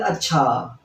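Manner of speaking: अच्छा drawn out as a lead-in to a question. Shown as a demonstration. Teacher showing someone about to ask, questioning lead-in. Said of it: "जैसे कोई प्रश्न करता है".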